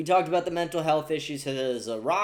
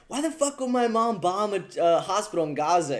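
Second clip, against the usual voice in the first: imitating Kyle freaking out; 5 semitones higher than usual. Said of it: "He goes".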